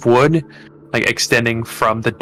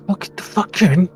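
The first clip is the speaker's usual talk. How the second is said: higher-pitched gruff grumble; grudging doorman; 8 semitones higher than usual. Acted. Sweaty doorman finally lets the stranger in, grudging. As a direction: grudgingly wave them in, annoyed. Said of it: "He's like".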